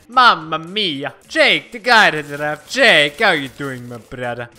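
hint of a cartoon Italian greeting; lightly hammed-up Italian accent; silly Italian accent. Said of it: "it just gets really stupid with my voice".

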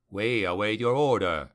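ordinary delivery, nothing marked

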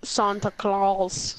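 very slow, low "Santa Claus" as SAHN-tuh; Spanish pronunciation. Retold or imitated. Friend copying the demo, "Santa Claus" slowly as SAHN-tuh. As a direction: echo "Santa Claus" drawn out with open "ah". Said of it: "They pronounce it Santa Claus in Spanish".

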